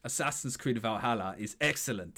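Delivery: lightly voiced Viking boast. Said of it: "Say it like a Viking".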